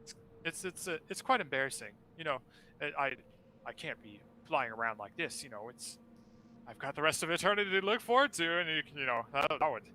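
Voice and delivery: high, grand, theatrical ghostly host; flaming skull voice. Acted. Skull thanks, embarrassed, rambling.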